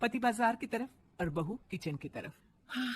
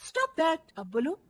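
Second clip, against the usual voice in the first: defiant retort; 7 semitones higher, 6 dB louder than usual. Acted. Bride answering back defiantly.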